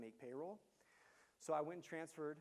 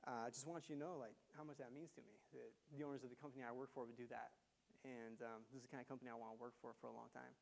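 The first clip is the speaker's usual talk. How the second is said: retold crying; 3 semitones lower, 9 dB quieter than usual. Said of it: "he's literally crying".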